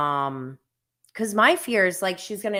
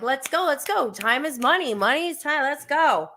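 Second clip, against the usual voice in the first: higher, brisk hurry-up chant; mock drill-sergeant mom hurrying her; hustling mom; 7 semitones higher than usual. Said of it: "I'm always like, I'm a hustler".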